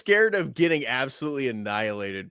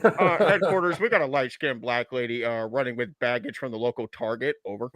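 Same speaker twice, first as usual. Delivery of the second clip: police dispatcher. Pretend. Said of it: "You sound like a cop calling in a robbery".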